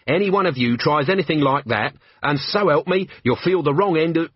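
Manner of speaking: threat. Acted. Betty threatening guards.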